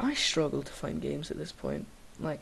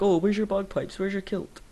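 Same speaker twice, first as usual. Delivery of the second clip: mocking tourist; 4 semitones higher, 3 dB louder than usual. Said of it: "people coming up to us and be like".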